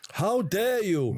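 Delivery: very high-pitched, accusing, rebuking outcry. Interrupting the other speaker with a Greta Thunberg impression. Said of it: "That's my impression of Greta Thunberg there".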